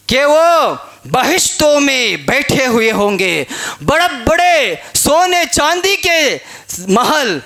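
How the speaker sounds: slow, stretched-out preaching; sermon oratory. Acted. Preacher describing palaces of paradise, slow declamatory delivery. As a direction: draw out each phrase to paint the splendour.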